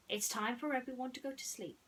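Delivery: sweetly. Acted. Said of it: "she said sweetly".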